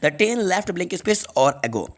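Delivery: very slow, word by word; slow dictation. Shown as a demonstration. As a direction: read the question slowly for students to copy. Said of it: "third number का question है". (बहुत धीमे, शब्द-शब्द करके)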